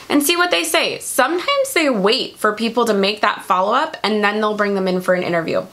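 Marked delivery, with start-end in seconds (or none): 4.6-5.6 talking through hiccups; hiccuping mid-sentence. Real, not acted. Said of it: "of course I get the hiccups".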